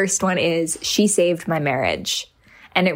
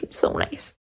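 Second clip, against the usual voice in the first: a soft whisper after a laugh; whispered aside; 6 dB quieter than usual. Real, not acted. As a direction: breathe it out, touched and hushed. Touched aside after a review.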